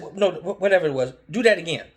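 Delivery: loud, insistent repeat demand; half-shouted retelling of a demand; mock demanding yell. Retold argument, demanding repeat.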